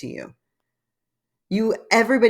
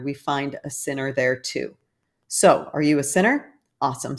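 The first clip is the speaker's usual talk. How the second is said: reading aloud. Acted. Reads an article aloud.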